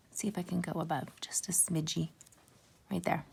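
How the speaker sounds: whispering to herself. Real, not acted. Muttering to herself while gluing.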